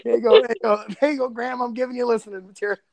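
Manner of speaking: normal talking voice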